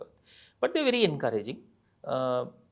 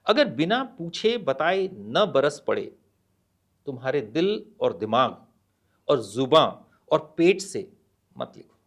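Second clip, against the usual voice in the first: measured poem reading with pauses; poem recitation. Acted. (कविता पाठ, ठहर-ठहर कर)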